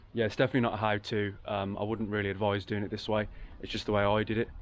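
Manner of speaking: bunged-up nasal voice from allergies; blocked nose, a little nasal. Real, not acted. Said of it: "apologies if I sound a little bit nasally and weird".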